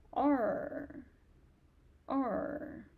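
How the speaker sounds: teacher models the falling fourth tone; falling tone demo. Shown as a demonstration. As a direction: let R fall sharply. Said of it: "R is falling tone".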